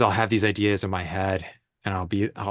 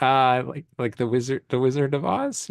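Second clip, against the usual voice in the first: higher, hesitant and questioning, retold; sheepish; 4 semitones higher than usual. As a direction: offer it tentatively, as if embarrassed to admit it. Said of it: "kinda sheepishly".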